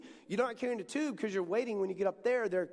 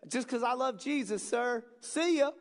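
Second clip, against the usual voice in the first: cheerful farewell; 5 semitones higher than usual. Retold or imitated. Joyful attendant answers the pastor.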